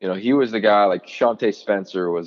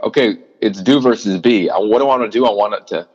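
self-talk, louder; 5 dB louder, faster than usual. Retold or imitated. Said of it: "of Larry being like".

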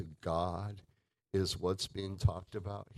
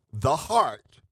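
high and loud, every person hammered; the heart of every person, cried out high; loud emphatic cry; 8 semitones higher, 10 dB louder than usual. Real, not acted. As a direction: shout it out to the room. Preacher punching key phrase.

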